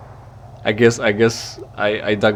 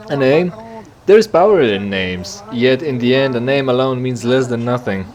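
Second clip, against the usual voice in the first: lightly voiced Hulas. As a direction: announce yourself as a grave alien traveler. Voicing Hulas.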